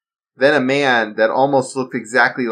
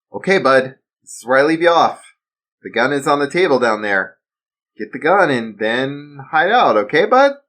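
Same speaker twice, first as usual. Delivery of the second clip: raised, earnest father calming his son; steady him like a worried dad; 5 semitones higher, 5 dB louder than usual. Acted. Father urging his son to remember the drill, earnest.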